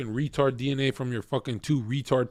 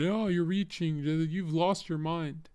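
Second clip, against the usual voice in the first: mocking quote; 4 semitones higher, 4 dB quieter, slower than usual. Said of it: "that said".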